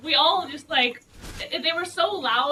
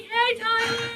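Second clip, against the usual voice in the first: high, loud call across the room through laughter; 12 semitones higher, 5 dB louder, much slower than usual. Retold or imitated. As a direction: shout a greeting across tables. Calling out to Tyler's table.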